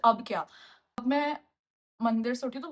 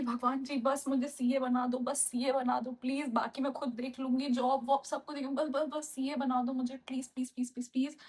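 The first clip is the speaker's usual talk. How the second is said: pleading prayer; 3 dB quieter than usual. Retold or imitated. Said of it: "prayer की है".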